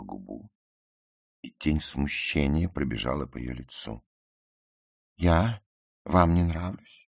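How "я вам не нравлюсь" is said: high, loud, drawn-out alarmed question; frightened. A narrator's reading. Ruth fears the narrator dislikes her, frightened. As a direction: ask in dismayed fright. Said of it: "испуганно спросила она".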